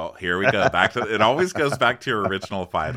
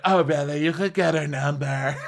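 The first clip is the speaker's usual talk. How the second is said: sarcastic reply; 7 semitones higher than usual. Retold or imitated. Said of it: "she's like".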